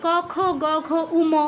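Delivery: ঙ said as উম with lips closing; mispronounced ঙ; wrong ঙ. Shown as a demonstration. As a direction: close the lips at the end like উম. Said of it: "এরকম বলছি না".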